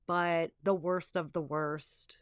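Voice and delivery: slow hushed whisper, holding back the worst; dramatic whisper. Acted. Mother telling listeners her worst moment, in a slow whisper. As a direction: breathe it out slowly like a dark secret.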